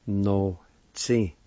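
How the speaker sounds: "No, tsi" in two separated syllables; broken-up take of "No, tsi"; syllable-by-syllable demo. Shown as a demonstration. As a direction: sound out "No, tsi" with a pause. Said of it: "It's pronounced like this".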